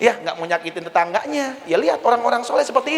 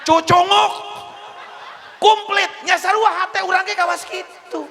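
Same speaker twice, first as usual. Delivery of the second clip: laughing exclaim; 10 semitones higher than usual. Real, not acted. Naming cockroaches, laughing.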